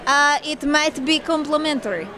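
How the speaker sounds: put-on light, slowed Russian assassin accent; a hint of a Russian killer, unhurried and teasing. Host asks her to answer in Russian accent. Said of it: "Say it in a Russian voice".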